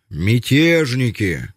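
slow accusing cry; fiery speech. Acted. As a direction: denounce them, drawing it out. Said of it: "пламенную речь".

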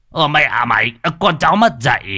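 put-on old man cursing his cheeky nephew; scolding.

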